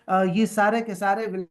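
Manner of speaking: words breaking up mid-phrase; tape dropouts. Real, not acted. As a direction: voice cutting out on a bad line. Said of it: "آپ کی آواز کٹ گئی".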